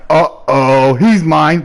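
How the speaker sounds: loud, predatory gloat; gleeful threat. Retold or imitated. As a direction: gloat over your prey. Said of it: "I'm like".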